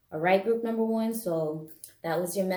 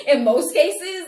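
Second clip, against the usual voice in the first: laughing; 11 semitones higher, 9 dB louder, slower than usual. Real, not acted. Laughing at own boat joke.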